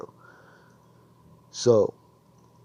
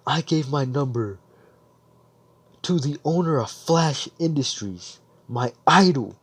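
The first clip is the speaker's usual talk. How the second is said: raised pitch, building to emphatic; amazed disclosure; 4 semitones higher than usual. Retold or imitated. Girl telling her parents about her idol, amazed. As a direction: act out a girl's astonished realisation.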